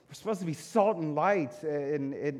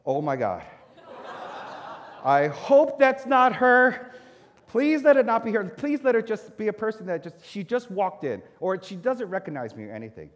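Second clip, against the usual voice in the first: mock panicked pleading; 5 semitones higher, 8 dB louder than usual. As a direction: beg the universe it isn't her. Dreading being recognized as pastor.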